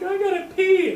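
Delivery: high, loud retold whine with laughter; urgent high voice. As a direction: imitate someone desperate for the toilet.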